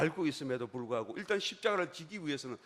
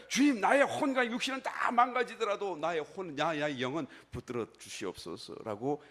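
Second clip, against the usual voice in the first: 절박한 기도 재연; 3 semitones higher, 6 dB louder than usual. Acted. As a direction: cry out the prayer with raised pitch and force. 예수의 마지막 기도를 재연. (높고 크게 간청하는 목소리)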